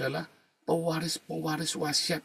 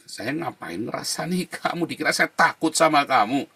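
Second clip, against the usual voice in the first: angry retort; 3 semitones higher, 6 dB louder than usual. Retold or imitated. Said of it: "Dia marah-marah".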